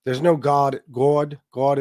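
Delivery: put-on There's no God in a New England Boston accent. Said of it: "how he says it with the New England Boston accent".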